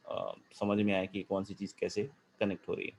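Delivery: choppy, lagging audio cutting out; breaking up voice. Real, not acted. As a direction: voice breaking up on a bad line. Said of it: "sir, आपकी आवाज़ अटक रही है".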